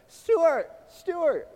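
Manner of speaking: high, shrill mock cry for help; shrill grandma. Grandson mimics grandma calling Stuart for help, shrill. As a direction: imitate a panicking grandma calling out, high and loud. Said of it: "I hear this shrill of a voice".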